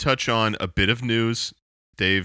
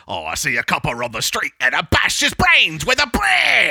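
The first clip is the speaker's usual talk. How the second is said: mock punk lyric; 6 semitones higher, 4 dB louder than usual. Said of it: "the other one is like".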